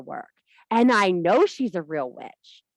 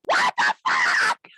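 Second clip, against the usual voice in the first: mock dismay; 4 dB louder, slower than usual. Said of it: "she's like".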